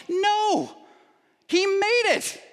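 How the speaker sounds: No and he made it shot up high and forceful; emphatic high no. Real, not acted. Preacher to congregation, refuting the idea with a high emphatic no. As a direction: reject the idea with a sharp high burst. Emphatic rebuttal to own question.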